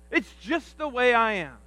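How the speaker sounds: slow, drawn-out excuse voice; mock excuse. Pastor mimicking the excuse people make, slow and drawn out. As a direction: shrug it off like it's nobody's fault. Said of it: "that's the excuse that we use".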